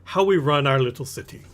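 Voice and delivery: lightly voiced, self-important city merchant; explaining merchant. Merchant to newcomer on running the city, lightly lecturing.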